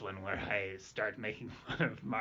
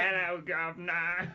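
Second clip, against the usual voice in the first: put-on British accent; 5 semitones higher than usual. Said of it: "A British, like, great".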